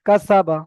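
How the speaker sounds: কাসাবা with short vowels, no stretched sound; no drawl. Shown as a demonstration. Teacher showing pupils কাসাবা without a drawl. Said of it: "এখানে কোনো টানের চিহ্ন নেই".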